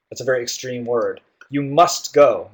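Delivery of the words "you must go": slow, insistent command; emphatic. Shown as a demonstration. Teacher showing how extreme "must" is, emphatic. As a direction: lean hard on "must", slowly. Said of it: "Must is very extreme".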